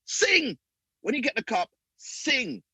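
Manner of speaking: rally the team to sing; retold urging shout. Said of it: "I said to them".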